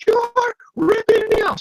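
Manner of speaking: high, whiny accusing; high school whine. Retold or imitated. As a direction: whine it like a teenager. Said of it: "very high school teenagers".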